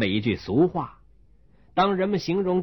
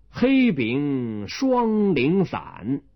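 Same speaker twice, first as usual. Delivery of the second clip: very slow, measured recital line; slow magistrate recital; magistrate reciting; much slower than usual. Acted. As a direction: intone it like an official. Magistrate sets a couplet.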